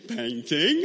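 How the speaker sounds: put-on breathless eager little-kid question; excited child. Small boy telling his mum about his day, eager gasp. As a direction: gasp then blurt it out like a proud toddler.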